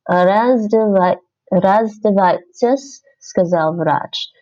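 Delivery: slow, careful reading while typing; slow dictation. Shown as a demonstration. Learner dictating the sentence to herself, slowly. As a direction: spell it out slowly as you type. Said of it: "typing while reading aloud".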